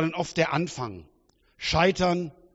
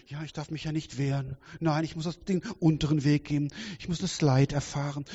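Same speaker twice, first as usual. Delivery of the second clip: mock wimp; 4 dB quieter than usual. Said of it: "diese Waschlappenmentalität".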